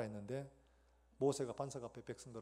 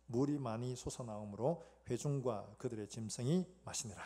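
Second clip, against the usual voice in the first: measured, lower-pitched Bible reading; scripture reading; 4 semitones lower than usual. Acted. Pastor leading congregation through the verse, measured reading. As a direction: read the verse out evenly for all to follow.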